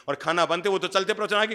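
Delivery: ordinary delivery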